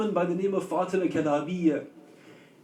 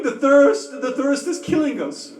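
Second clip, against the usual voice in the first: anguished cry; 3 semitones higher, 5 dB louder than usual. Acted. Voicing thirsty children crying.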